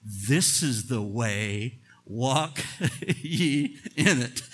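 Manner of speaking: slow, low, gentle divine voice, a touch hushed; voice of God behind you. Acted. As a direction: let God's quiet voice guide from behind. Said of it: "your ears will hear a voice behind you saying".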